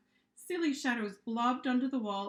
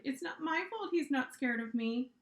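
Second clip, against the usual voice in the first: higher, sulky whine; whining; 4 semitones higher than usual. Acted. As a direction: complain like a sulky kid. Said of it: "she whined".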